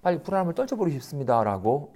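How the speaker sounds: hushed, anxious confession; trembling whisper. Retold or imitated. A disciple confessing anxiety to his master, hushed and trembling. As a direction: whisper the fear to the teacher. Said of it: "여겨 떨었어요".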